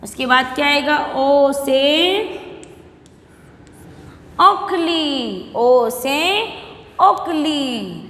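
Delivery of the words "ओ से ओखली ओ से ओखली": slow, drawn-out letter-and-word drill; alphabet recitation. Shown as a demonstration. Teacher drilling young pupils in Hindi vowels, slow recitation. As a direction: stretch each vowel for a class to repeat.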